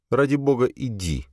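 high, bitter send-off dropping away; exasperated dismissal. A narrator's reading. Jocasta to Virgil, bitterly sending him away. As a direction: wave him off, sick of it.

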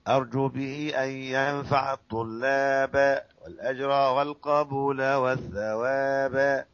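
slow, savoring chant; melodic recitation. Shown as a demonstration. Teacher chants the verse for students, slow and savoring. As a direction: recite slowly and let it sing. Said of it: "فتقرأها كما قرأها".

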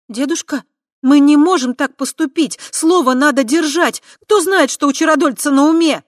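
high, loud urgent plea. A narrator's reading. Tai urging her grandfather to keep their promise. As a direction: press the elder to keep his word.

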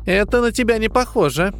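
high, musing character voice; pensive drawl. A narrator's reading. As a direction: muse aloud with suspicion. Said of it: "Задумчиво протянула она".

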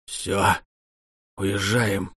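commanding. A narrator's reading. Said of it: "приказал купец".

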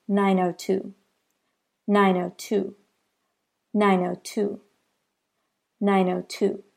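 "nine oh two" with zero said as "oh", run together; linked demo. Shown as a demonstration. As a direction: flow "nine oh two" as one sound group. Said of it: "that sounds like".

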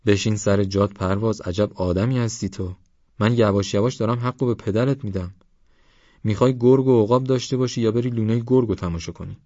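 lightly voiced older companion scolding; mildly exasperated, rising toward the final question; exasperated Esmail.

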